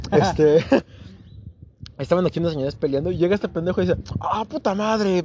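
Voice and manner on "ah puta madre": slow, drawn-out retold yell; mock yell. Imitating a friend's slow yell. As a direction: friend yelling at a fight in the park, mildly mock yelled. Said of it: "así gritando".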